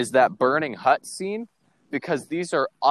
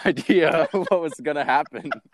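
stifled giggles; 2 semitones higher than usual. Real, not acted. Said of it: "I was trying not to laugh".

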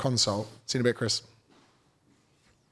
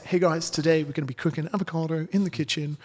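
bland influencer; 5 semitones higher than usual. Pretend. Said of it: "if I was like".

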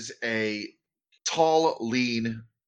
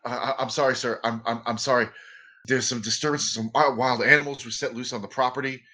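flustered stammer; faster than usual. Acted. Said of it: "who just blanches white".

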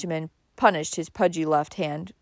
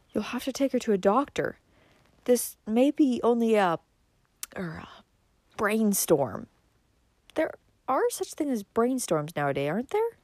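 higher, softish tentative suggestion; lightly voiced hesitant relative; 5 semitones higher, 4 dB quieter than usual. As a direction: suggest it haltingly.

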